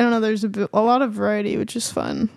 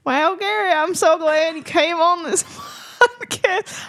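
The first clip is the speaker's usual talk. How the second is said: put-on accidental southern accent; 4 semitones higher than usual. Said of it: "I'm not trying to do this accent".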